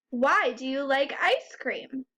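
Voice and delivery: "Why do you like ice cream?" lifted on "ice"; question rise. Shown as a demonstration. Teacher showing how questions sound, voice up near "ice cream". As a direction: ask it with the voice climbing toward "ice cream". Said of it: "your voice goes up at the end".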